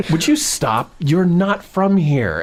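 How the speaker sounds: imitating an exasperated wife; slow down into a weary reprimand; mock scolding.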